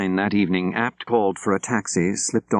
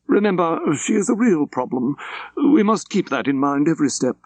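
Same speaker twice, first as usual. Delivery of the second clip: higher and louder insistent official voice; urgent warning; 9 semitones higher, 3 dB louder than usual. Acted. Layton warning Apt at the car door, higher urgent voice. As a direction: press the warning home.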